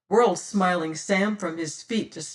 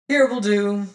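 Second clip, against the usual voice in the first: a lightly voiced cold captain's order, louder; pirate captain; 3 semitones higher, 6 dB louder than usual. Pirate captain ordering his crew to the beach, cool and commanding.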